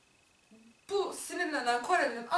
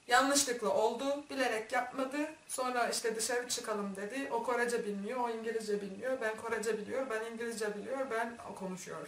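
broken-language imitation; 4 dB quieter than usual. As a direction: mimic fumbling through a foreign language. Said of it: "düzgün cümle de kuramıyorum". (bozuk cümlelerle, tane tane)

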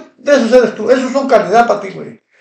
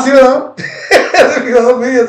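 amused laughing; 2 semitones higher, faster than usual. Real, not acted. Streamer amused by a viewer's refrigerator joke, laughing. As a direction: talk through a real chuckle.

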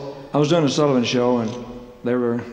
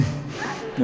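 dog hum; 8 dB quieter than usual. Retold or imitated. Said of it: "look back at the dog going".

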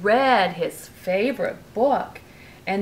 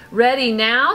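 lively bedtime storybook reading; reading to a child; 3 dB louder than usual. A narrator's reading. Parent reading a bedtime story to Brooklyn, lively. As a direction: read it like a bedtime story to a little one. Reading picture book aloud.

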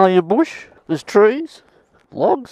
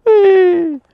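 gleeful whee; 13 semitones higher, 3 dB louder than usual. Real, not acted. Coasting downhill on his bike, gleeful high whee. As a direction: ride the thrill, high and long.

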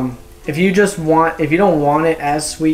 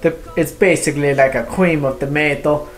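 put-on playful, lightly done Italian accent; mock Italian accent. Reviewer playing Italian to describe a soup, mock Italian accent. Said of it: "maybe we should talk Italian for this one".

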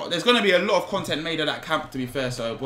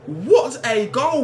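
slow, higher, stretched-out admiration; awed praise; 7 semitones higher, 5 dB louder, much slower than usual. Real, not acted. Gamer marvelling at his own replay, slow and awed. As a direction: savour every word of it.

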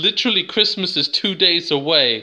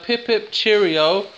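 higher, drawn-out mock-British greeting; British accent; 6 semitones higher, slower than usual. Wee lad greeting North Americans, hammed-up British accent. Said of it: "with a British accent".

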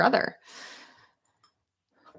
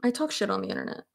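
quick blunt aside; 5 dB quieter, faster than usual. Retold or imitated. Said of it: "it's just easier if I'm like".

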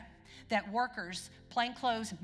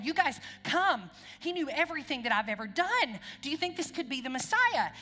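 excited calling out; 4 semitones higher, 3 dB louder than usual. Retold or imitated. Woman runs to town calling the men to come, excited shout. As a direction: call the village men over, louder and higher. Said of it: "And she's yelling".

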